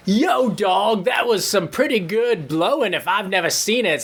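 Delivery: lightly voiced hype judge; casual cheer from the judges' table; Randy Black Guy voice. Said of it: "says Randy Black Guy".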